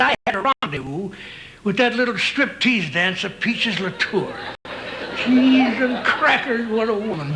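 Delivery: lightly voiced old cowboy drawl; a hint of a grizzled ranch hand; old Western cowboy. Old cowboy reminiscing to his pal.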